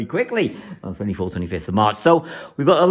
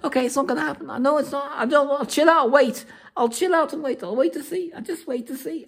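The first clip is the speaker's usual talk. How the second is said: calm self-reassurance; 12 semitones higher, 3 dB quieter than usual. Acted. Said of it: "And we simply know".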